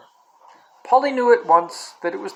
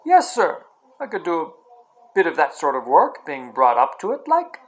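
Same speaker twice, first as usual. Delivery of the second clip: cockney cabbie. Acted. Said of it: "sharp, quick voice of a cockney".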